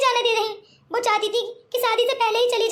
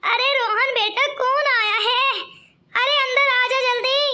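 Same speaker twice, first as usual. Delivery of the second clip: grandmother calling. Acted. Grandmother calls from inside.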